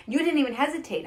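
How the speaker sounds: high, loud admiration; excited retelling. Retold or imitated. Praising the doctor who ran to help, excited. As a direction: marvel at him emphatically.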